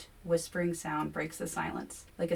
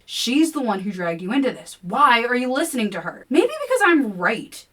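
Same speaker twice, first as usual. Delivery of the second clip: higher, louder accusation; accusing; 7 semitones higher, 10 dB louder than usual. A narrator's reading. Kevin accusing the narrator to William, loud. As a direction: throw the blame at her.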